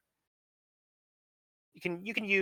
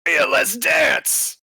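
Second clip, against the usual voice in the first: high, loud and slow cheer; excited shout; 8 semitones higher, 9 dB louder, much slower than usual. Acted. Cohost cheering the others after the song, a high shout. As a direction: whoop it out, ready to party.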